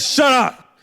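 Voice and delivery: sass your grandmother hard; mouthy back-talk. Retold or imitated. Kid snapping at grandmother over fetching a switch, mock outrage.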